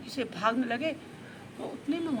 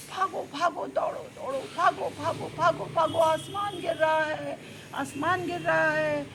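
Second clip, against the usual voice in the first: घबराया हल्ला; 4 semitones higher than usual. Acted. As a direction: raise the alarm as a fleeing rabbit, calling out. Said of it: "ऐसा हल्ला मचाने लगा". (घबराकर हल्ला मचाते हुए)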